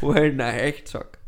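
slow, heavily accented impression; hammed-up, deliberate impersonation; Werner Herzog. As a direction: draw the name out in a mock German accent. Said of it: "I can do Werner".

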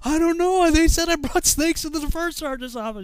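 high, loud, pleading shout; hammed-up rattled private; flustered recruit. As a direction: yell the excuse back, high-pitched. Panicked recruit answers sergeant.

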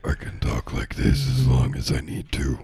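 lightly voiced bleating satyr; goat man voice. Shown as a demonstration. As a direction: hold a faint goat man voice. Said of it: "try to do a goat man voice".

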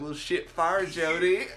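teasing imitation of Southern talk; Anderson County accent. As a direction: play along in mock country Southern. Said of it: "she's got me talking, like, Anderson County style".

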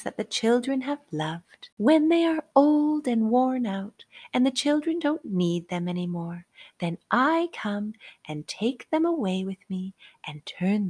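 a hint of a kindly fairy; tiny tinkling fairy voice. Fairy speaks to the rabbit.

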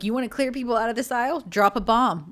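quick, mildly sarcastic quip. Acted. Imitating husband joking in the grocery aisle, sarcastic. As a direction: toss it off as a mock wisecrack. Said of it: "he would say something sarcastic".

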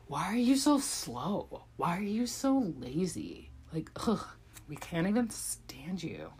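mocking animals. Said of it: "And they're like".

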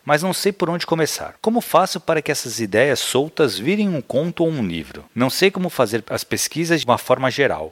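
steady read-aloud delivery, phrase by phrase. Real, not acted. Co-host reading out a listener's questions about writing, reading aloud.

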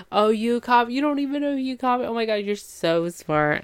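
high, quick, gushing mock admiration; hammed-up fawning. Kate fawns over her date's test remark, hammed-up gushing. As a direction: overplay being impressed, starting high and settling on the praise. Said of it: "she's acting that sort of way".

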